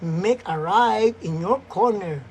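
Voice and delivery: slow, mechanical navigation announcement; a slow, lightly robotic GPS prompt. Retold or imitated. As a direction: sound like a car navigation app. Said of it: "magsasalita yung Waze".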